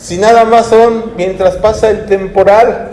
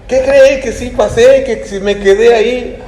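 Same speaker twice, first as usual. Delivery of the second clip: higher, lightly acted happy announcement; mock delighted children; 5 semitones higher than usual. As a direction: play a youngster proudly reporting good news. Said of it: "Y es un gusto cuando iban". (imitando la alegría de un joven)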